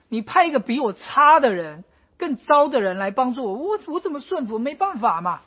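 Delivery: mock-aggrieved grumbling at God; complaining prophet. Habakkuk complaining that God chose the wrong people, grumbling. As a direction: argue that God picked the wrong man. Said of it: "他又抱怨".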